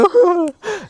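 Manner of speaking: very high imitated "ooh" whimper; mock tearful whimper. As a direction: squeak as if nearly crying, half laughing. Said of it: "nearly in tears".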